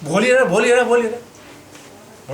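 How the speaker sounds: fed up with the lecturer who keeps on talking, grumbling in annoyance; exasperated grumbling. Retold or imitated. Impatient, annoyed muttering at a class that never ends. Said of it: "बड़ा गुस्सा आया".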